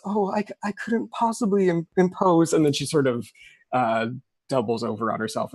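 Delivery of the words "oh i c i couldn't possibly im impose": put-on higher, faltering faint girl; weak polite refusal. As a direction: stammer a feeble refusal. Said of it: "Rachel goes".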